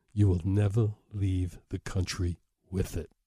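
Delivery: a hint of a veiled threat, mostly plain voice; lightly voiced calm menace; quiet menace. Client president promising Mark he'll never leave, quietly menacing. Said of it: "my blood ran cold".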